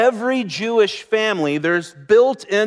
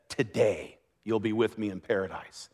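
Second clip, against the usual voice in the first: much softer, gentle promise; soft reassurance; 10 semitones lower, 11 dB quieter than usual. Retold or imitated. Jesus promises the thief paradise, tenderly quiet.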